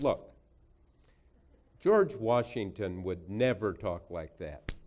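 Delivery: mock worked-up lecturing, loud and slow; Hillary Clinton. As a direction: imitate an indignant senator hammering each word home. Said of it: "she got really worked up".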